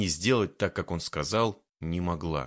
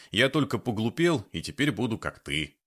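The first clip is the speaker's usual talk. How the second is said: ordinary delivery, nothing marked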